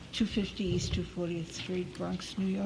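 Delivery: softly given name and address; too quiet. Real, not acted. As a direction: state your details softly, barely projecting.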